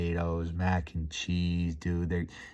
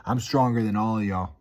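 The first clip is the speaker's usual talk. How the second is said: said with his chest; 3 semitones higher, 4 dB louder than usual. Retold or imitated. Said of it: "say it with his chest".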